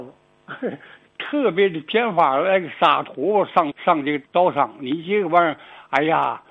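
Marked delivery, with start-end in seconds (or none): none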